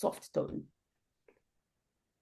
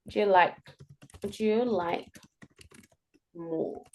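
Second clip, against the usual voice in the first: trailing demo; 2 semitones lower, 6 dB quieter than usual. Shown as a demonstration. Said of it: "the interesting is the last one".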